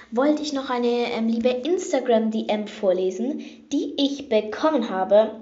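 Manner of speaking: bathroom echo on the voice; recorded in a tiled bathroom. Real, not acted. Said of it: "Sorry für den beschissenen Ton".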